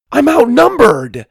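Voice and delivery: high playful cry of protest; high yelp. Acted. Girl dodging in dodgeball.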